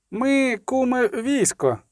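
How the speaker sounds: high, put-on boastful voice; a feigned bluff soldier; lying soldier boast. A narrator's reading. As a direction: sell the lie with false swagger. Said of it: "збрехав Скиглик".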